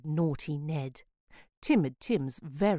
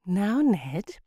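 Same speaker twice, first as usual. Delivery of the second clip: patient mum; 5 semitones higher, 4 dB louder than usual. Acted. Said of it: "in her best perfectly patient voice".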